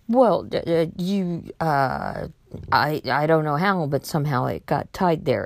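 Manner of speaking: imitated stalling, halting false starts; flustered stammer. Caught scammer answering a doubting caller, flustered. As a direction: stumble through an excuse you don't have.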